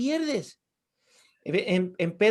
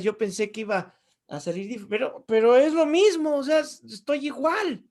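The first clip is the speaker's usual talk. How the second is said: a pleading, exasperated protest pitched higher; mock complaint to God; 3 semitones higher than usual. Playing a believer protesting to God about his unchanged body. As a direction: whine to the Lord that nothing changed.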